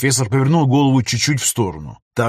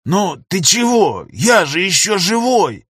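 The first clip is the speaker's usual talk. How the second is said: mumbling; 7 semitones higher, slower than usual. A narrator's reading. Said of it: "продолжал бубнить профессор".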